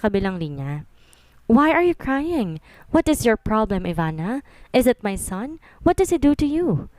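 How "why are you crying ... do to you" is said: lightly voiced anxious tita, slow at first; worried mother-in-law. Mother-in-law on the phone asking Ivana why she cries, lightly worried. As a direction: pepper her with concerned questions. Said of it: "Sunod-sunod pang tanong nito".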